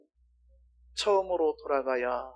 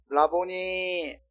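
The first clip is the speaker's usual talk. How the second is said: slow answer; 3 semitones higher, much slower than usual. Shown as a demonstration. Mary answering Jesus, drawn out slowly. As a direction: draw 라보니 out very slowly. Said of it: "이렇게 한 것 같은데요".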